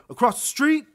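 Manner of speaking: high, loud baffled question; mock a clueless customer's shouted question; imitating ignorant customer. Customer checking the clerk's directions, loud mock bafflement. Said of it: "how fucking ignorant can you sound".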